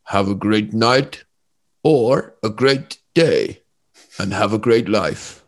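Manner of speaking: put-on slow Dutch-accented meditation guide; Wim Hof, calming. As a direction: draw each phrase out slowly, like a calming Dutch guru. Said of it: "very calming. He's got, like, a deep voice".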